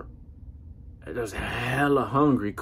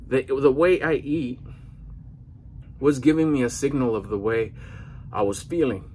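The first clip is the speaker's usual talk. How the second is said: winded, catching breath between phrases. Real, not acted. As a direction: talk while still out of breath after a workout. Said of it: "I'm a little bit out of breath".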